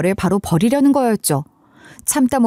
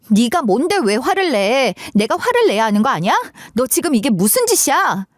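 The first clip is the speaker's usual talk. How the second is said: acted angry confrontation; 2 semitones higher than usual. Quarrel outside the coffee shop.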